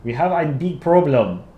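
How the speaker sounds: slow, badly faked Dutch accent; attempted Dutch accent. Shown as a demonstration. Streamer trying a requested accent, slow mock Dutch accent. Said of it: "Dutch accent, please".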